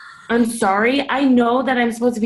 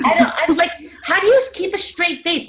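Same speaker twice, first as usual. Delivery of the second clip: laughing; 7 semitones higher than usual. Real, not acted. Laughing at absurd clients.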